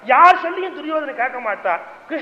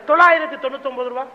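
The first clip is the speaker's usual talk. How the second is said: rapid haggling; 2 semitones higher, faster than usual. Retold or imitated. Haggling rich man's counteroffer.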